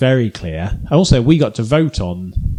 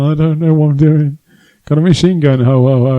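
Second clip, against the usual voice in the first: higher, louder Scandinavian baddie accent; hammy movie villain with a laugh; Die Hard villain; 5 semitones higher, 7 dB louder than usual. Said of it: "like a Die Hard villain".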